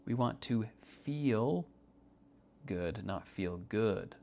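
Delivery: slow, feel and good contrasted; stress on feel, then good. Shown as a demonstration. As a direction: say it slowly, weighing feel against good. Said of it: "we move it from good to feeling".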